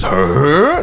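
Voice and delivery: questioning caveman grunt, imitating a TV dad; imitated Tim grunt. Co-host mocking the sitcom husband, imitated questioning grunt. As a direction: grunt a mock "huh?". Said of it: "went like this".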